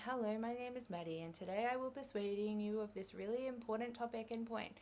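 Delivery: flat, droning, uninterested delivery; boring monotone. Shown as a demonstration. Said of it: "nothing more boring than someone talking to you like this".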